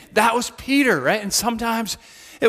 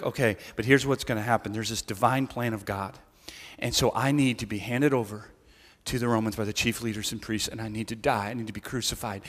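hushed solemn Jesus; 8 semitones lower, 8 dB quieter than usual. Retold or imitated. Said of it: "he's like".

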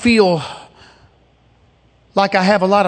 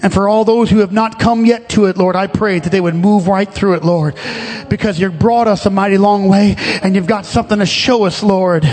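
closing prayer. Acted. Preacher praying over his people at the close, steady prayer. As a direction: pray it down gently, calling on the Lord.

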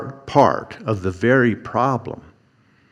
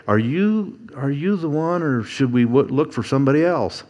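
doubting question; 4 semitones higher, 3 dB quieter than usual. Retold or imitated. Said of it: "And then they".

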